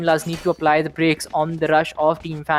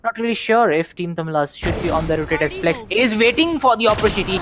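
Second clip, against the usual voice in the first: brisk live play-by-play; esports caster. Acted. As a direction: call the round like a caster.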